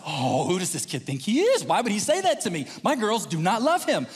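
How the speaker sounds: mildly indignant muttering to oneself, acted; mad. Pacing dad fuming about a boy, mock mad. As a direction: build from grumble to protest. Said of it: "But now I'm mad".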